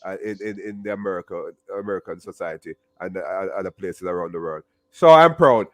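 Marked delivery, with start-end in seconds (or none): 4.9-5.7 proud declaration. Real, not acted. Declaring pride to a Jamaican.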